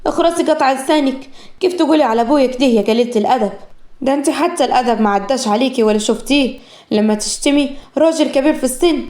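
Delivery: mildly heated rebuke of an insult; angry. Acted. Zahra scolding the rude woman who insulted her father, mildly angry. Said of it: "زهرة قطعتها بعصبية".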